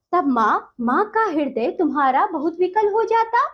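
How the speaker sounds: measured, sing-song verse reading; poem recitation. Acted. Teacher reciting the poem to children, lilting.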